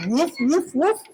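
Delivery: lightly voiced dog barks, woof after woof; dog barking. Snoopy candidate barking his campaign speech, lightly voiced dog. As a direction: bark like a dog giving a speech. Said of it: "delivering his speech in Portuguese".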